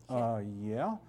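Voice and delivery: low, soft reluctant admission; sheepish. Retold or imitated. Pastor answering the Lord about the garden, sheepish. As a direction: mumble it like you got caught.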